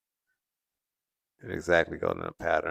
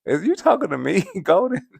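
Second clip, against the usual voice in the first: playful demo; 11 semitones higher, 4 dB louder than usual. Shown as a demonstration. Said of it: "you gotta say".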